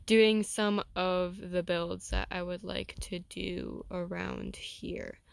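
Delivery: slow, trailing down on "around here"; voice dropping low. Real, not acted. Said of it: "Why did my voice go so low like that".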